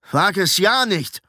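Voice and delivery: hostile, emphatic warning; angry warning. A narrator's reading. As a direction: warn him off, drawing it out. Hostile apprentice threatens newcomer.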